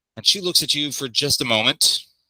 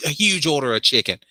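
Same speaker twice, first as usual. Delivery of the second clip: chirpy NPC voice; 4 semitones higher than usual. Acted.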